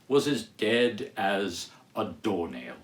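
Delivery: slow, each word of "was as dead as a doornail" weighted with stress on "was"; emphatic. A narrator's reading. The narrator insisting to listeners that Marley was dead, emphatic and slow. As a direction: lean hard on "was as dead as a doornail", slowly. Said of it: "repeat emphatically".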